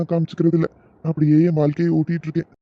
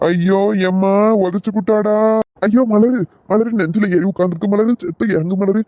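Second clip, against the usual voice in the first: pained wailing; 3 semitones higher than usual. Acted. Husband crushed, crying out in pain.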